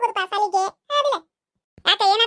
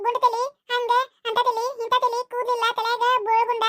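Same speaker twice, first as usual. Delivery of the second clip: higher whimpering complaint, half put on; whiny crying drama; 4 semitones higher than usual. A boy complaining tearfully to the neighbour aunt, whiny crying. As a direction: play up the tears to win the grown-ups over. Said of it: "ಅಳ್ಕೊಂತ drama ಮಾಡಕತ್ತಾನ ನೋಡಮ್ಮ".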